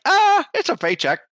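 dopey high drawl, mocking the lifers; dumb guy voice. Mocking the dumb lifers in a dopey voice. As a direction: play the clueless lifer, slow and high.

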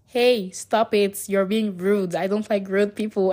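imitating telling off her friends, half-serious; scolding friends. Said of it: "I'm like".

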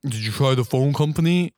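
lightly voiced unhelpful officer; a hint of a dismissive official; police dispatcher. Police answering a worried caller, lightly put-on voice. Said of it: "And they're like".

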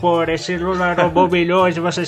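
Olavo de Carvalho impression. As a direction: rant like a furious old pundit. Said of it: "Ele fala assim, ó, velho pistola".

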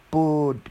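"food" said as "pood"; Filipino-accented "food", starting on P. Shown as a demonstration. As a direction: open "food" with a P instead of F. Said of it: "put your F to be peace".

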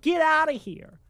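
fired-up rant. Retold or imitated. Reader telling Shin Shin off for pacifism, mock fired-up rant. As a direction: shout down the pacifist, hammed up. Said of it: "I was just getting fired up".

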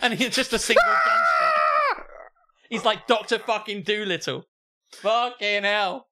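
high, loud, slow laugh-through words; laughing mock despair. Real, not acted. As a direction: wheeze it out laughing in fake pity.

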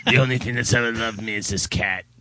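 a hint of a sad hitman; mock brooding hitman. Voicing friend's photo caption.

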